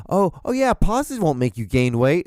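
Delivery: mocking quote.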